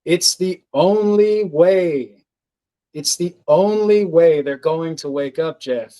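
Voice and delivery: lightly voiced firm being, insisting; stern voice. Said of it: "in a very stern voice".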